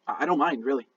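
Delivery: hesitant, stammering offer; timid, halting and apologetic; nervous. Acted. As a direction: trail through it nervously, tripping over small words. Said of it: "looking nervously from left to right".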